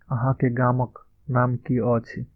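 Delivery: slow, careful Maithili model line; slow model phrase. Shown as a demonstration. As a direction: spell it out slowly for learners. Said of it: "इसका उच्चारण इस तरह से होगा".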